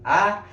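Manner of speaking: "a" said with an open mouth; open A sound. Shown as a demonstration. Teacher showing the class where the glide starts, open A sound. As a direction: open up on "a", pitched high. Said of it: "start with your mouth open".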